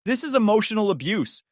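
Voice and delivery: high loud shriek. Retold or imitated. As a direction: shriek the accusation. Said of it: "Chloe shrieked".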